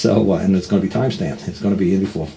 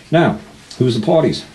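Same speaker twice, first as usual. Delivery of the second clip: raised, louder coaching question; urgent prompting; 5 semitones higher, 4 dB louder than usual. Retold or imitated. Helper walking friend through the court form, urgent prompting. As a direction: prod them briskly to the next step, pitched up.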